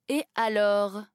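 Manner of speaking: « Et alors » en détachant chaque syllabe; « Et alors », calme et martelé; syllabes détachées. A narrator's reading. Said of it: "en détachant les syllabes". (« Et alors », syllabe par syllabe, sans s'émouvoir)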